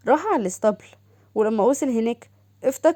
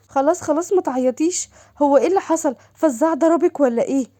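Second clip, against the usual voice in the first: higher, eager sister calling; sister's voice; 4 semitones higher, 4 dB louder than usual. Acted. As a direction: gush over her sister on the phone. Doha comforts crying sister. (صوت أخت متلهفة أعلى)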